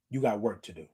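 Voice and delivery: a quiet echo to let it sink in; soft echo. Retold or imitated. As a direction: let "got" land low and soft. Echoes the words to herself.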